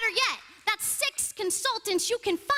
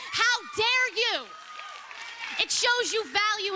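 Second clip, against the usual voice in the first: angry; 4 semitones higher than usual. Real, not acted. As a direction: hurl the question at them. Outraged speaker confronts board.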